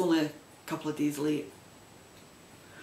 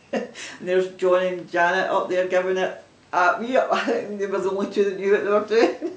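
chuckling through the words, a little louder; laughing; 3 dB louder than usual. Real, not acted. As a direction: laugh while telling about the dancers. Laughing at dancing video.

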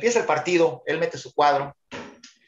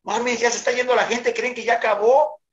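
retold shout; 9 semitones higher than usual. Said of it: "me grita el Aguitán".

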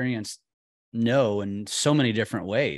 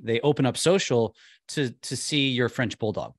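normal talking voice

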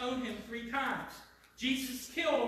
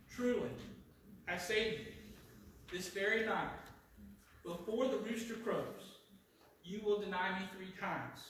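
quiet, low, with weighty pauses; solemn prediction; 3 semitones lower, 5 dB quieter than usual. Acted. Jesus foretelling Peter's denial, solemn and quiet.

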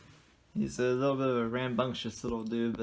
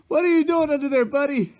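squealing pet talk; 12 semitones higher, 9 dB louder than usual. Real, not acted. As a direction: coo up high at the little guy. Baby-talk to the hiding pet.

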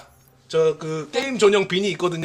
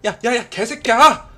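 louder mock swearing rant; pretend angry outburst; 4 semitones higher, 6 dB louder than usual. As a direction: fake a furious blow-up. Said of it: "라고 할 뻔했는데".

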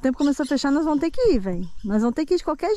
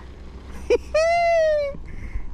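high tearful laugh; 14 semitones higher than usual. Real, not acted. Laughing while crying in fear.

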